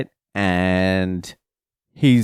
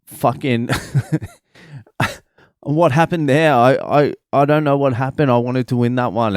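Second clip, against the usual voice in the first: frustrated, half-laughing, pitched up high; pissed off; 5 semitones higher than usual. Retold or imitated. Son after losing his match, pissed off and laughing. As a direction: vent like a kid who just lost. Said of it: "starting to get pissed".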